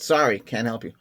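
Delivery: flat readout of a machine refusal; error message quoted. Retold or imitated. Quoting the TV error screen, mock machine tone. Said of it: "It said".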